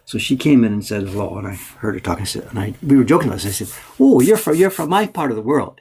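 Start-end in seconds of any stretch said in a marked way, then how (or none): 4.0-5.8 higher, louder knowing tease; raised, sing-song playful opener; playful teasing. Retold or imitated. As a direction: bait her lightly, like you know a secret. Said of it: "just playing the".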